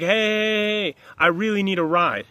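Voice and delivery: flag the driver down, acting it out; calling out for a ride. Another stranger calls to the driver, mock calling out.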